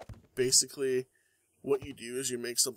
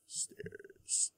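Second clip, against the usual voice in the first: whisper; 8 dB quieter than usual. Real, not acted. Reading item names under breath.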